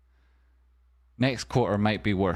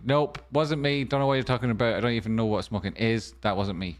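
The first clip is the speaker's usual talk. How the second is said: put-on caught kid denying; faster than usual. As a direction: play the busted teenager. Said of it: "if your mum catches you".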